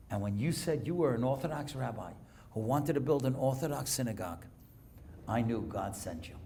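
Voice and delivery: low, soft and choked up, a banker near tears; tearful quiet voice. Retold or imitated. Banker tells the rabbi why he'll pay, quietly tearful. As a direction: speak it softly through held-back tears. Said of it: "who's crying now".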